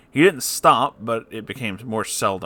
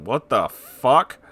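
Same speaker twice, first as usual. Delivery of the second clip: slow disbelief; 3 semitones higher, 6 dB louder, much slower than usual. Real, not acted. Reacting to screwdriver threat story.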